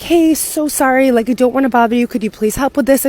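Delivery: imitating an over-sweet apology; overly apologetic. American abroad politely asking French people for help, overly apologetic. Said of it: "overly apologetic".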